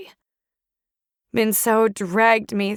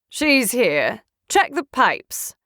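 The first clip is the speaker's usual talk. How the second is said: cold order; slower than usual. Acted. Enemy voice ordering search.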